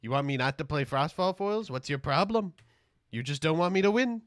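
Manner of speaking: hammed-up wounded protest; mock-outraged reply to critics; indignant retort. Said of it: "I say".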